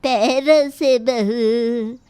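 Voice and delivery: a sharp-tongued granny taunting her daughter-in-law; stern old grandmother. Acted. Grandmother-in-law scolds lazy daughter-in-law.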